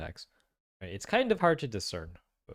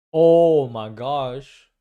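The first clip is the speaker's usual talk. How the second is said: slow, loud gasp of realization; a drawn-out, stunned oh my gosh; real shock; 3 semitones higher, 13 dB louder, much slower than usual. Real, not acted. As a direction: it suddenly clicks and floors you. Sudden realization about lullaby meaning.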